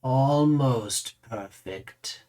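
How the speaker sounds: very slow, stretched-out ALMOST; lingering verdict. Acted. Raises the mirror to repeat his verdict, drawn out and lingering.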